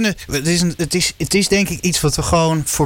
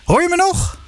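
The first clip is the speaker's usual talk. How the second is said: calling out; 13 semitones higher than usual. Real, not acted. Checking a dropping phone line.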